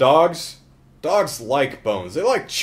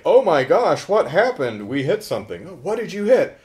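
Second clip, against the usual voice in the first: startled, higher-pitched questioning; shocked reaction; 5 semitones higher, 4 dB louder than usual. Retold or imitated. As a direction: act out a mildly shocked friend. Acts out startled coworker in retelling.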